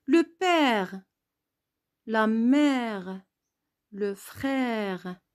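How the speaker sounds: père, mère, frère with a wide-open è. Shown as a demonstration. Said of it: "je dois bien ouvrir ma bouche".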